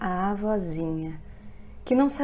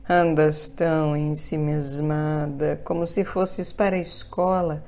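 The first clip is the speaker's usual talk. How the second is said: sly wolf voice; 4 dB louder than usual. Acted. Wolf lures the girl.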